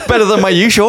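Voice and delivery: real laughter through the words; laughing. Real, not acted. Laughing at own impression.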